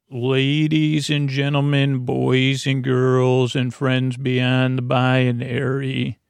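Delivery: slow, drawn-out announcer intro; grand entrance announcement. Acted. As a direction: announce it like a ringmaster.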